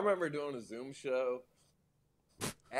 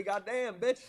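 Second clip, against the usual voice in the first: Guy Fieri impression; 11 semitones higher, 3 dB louder than usual. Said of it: "It's exactly how Guy Fieri sounds".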